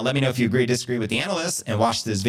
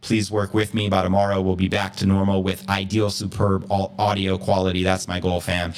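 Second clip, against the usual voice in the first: echoey audio. Real, not acted. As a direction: voice echoing in a big hall. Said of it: "I apologize for the echoey audio".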